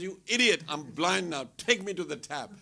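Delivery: mock angry yell at the man; retold yell. Yelling at the man who put color in his eyes, mock angry shout. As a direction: shout it like you've been blinded.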